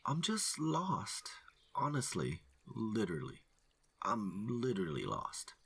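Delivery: hiker begging not to be shot; nervous pleading. Acted. Lost hiker pleading at gunpoint.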